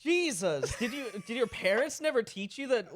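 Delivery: incredulous scolding. Acted. Friend scolds man touching fire.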